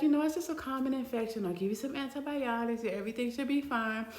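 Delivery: lightly voiced calm doctor, softening; reassuring doctor. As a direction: imitate a matter-of-fact reassurance.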